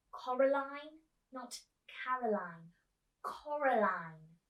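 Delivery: Coraline stressed, not Caroline; correcting her name. Acted. Girl corrects old actress about her name. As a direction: insist on Coraline, slowly. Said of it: "said Coraline".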